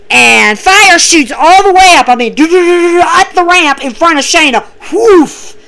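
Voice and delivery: excited. Real, not acted. Fire shoots up the ramp.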